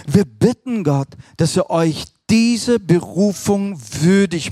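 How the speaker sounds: slow, measured reading of the verse; solemn scripture reading. Acted. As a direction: read it like a prayer from the pulpit. Reads Bible passage solemnly.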